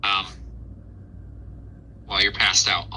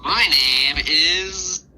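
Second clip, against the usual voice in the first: pixie; 5 semitones higher than usual. Acted. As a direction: draw out the name like a proud little pixie. Pixie introduces himself.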